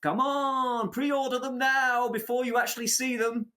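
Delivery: high-pitched hammy sales pitch; snake oil salesman. Retold or imitated. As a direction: pitch it like a huckster hyping pre-orders. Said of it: "in their snake oil salesman's cart".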